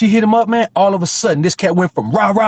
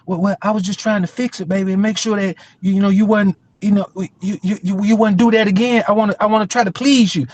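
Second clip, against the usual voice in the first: put-on pleading boyfriend; 4 semitones higher than usual.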